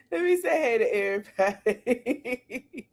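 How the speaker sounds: words half lost in laughter; laughing. Real, not acted. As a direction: try to say it but the giggles win. Repeats greeting while laughing.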